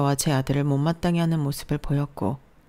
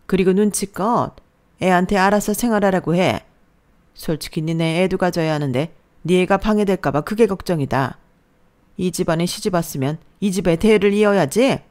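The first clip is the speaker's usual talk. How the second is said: a louder, bossy mother-in-law lecturing her daughter-in-law; mother-in-law putting the new bride in her place, a touch louder; scolding mother-in-law; 3 semitones higher, 5 dB louder than usual. Acted. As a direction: lay down the law like a domineering mother-in-law.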